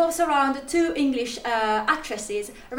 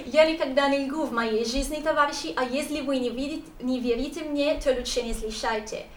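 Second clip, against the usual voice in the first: reading Russian lines with a Russian accent. Shown as a demonstration. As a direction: read the Russian quote in a Russian accent. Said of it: "apologies for my Russian accent".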